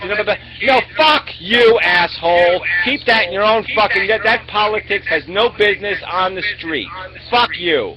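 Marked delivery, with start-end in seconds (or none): 0.6-4.5 angry outburst. Real, not acted. Angry outburst at offensive t-shirt.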